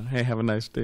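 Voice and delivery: mild, matter-of-fact imitation of a New Yorker; blunt New York delivery. Teacher imitates a blunt New Yorker, lightly gruff. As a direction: toss off "Hey, have a nice day" flatly, with no warmth. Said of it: "But they're saying it like that".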